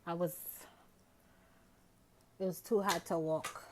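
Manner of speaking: winded after a bike ride; panting between words; out of breath. Real, not acted. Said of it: "I'm out of breath".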